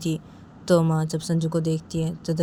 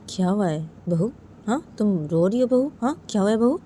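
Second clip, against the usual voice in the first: lightly acted aunt, pitch climbing; concerned aunt; 5 semitones higher, 3 dB louder than usual. Aunt finds daughter-in-law crying, lightly voiced concerned questioning. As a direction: question her with rising concern.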